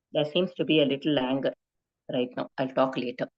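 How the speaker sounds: soft, even admission of anger; calm self-aware. Shown as a demonstration. Teacher showing a calm reply, soft and even. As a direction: say it gently, owning the feeling. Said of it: "I don't say, "There is some anger right now".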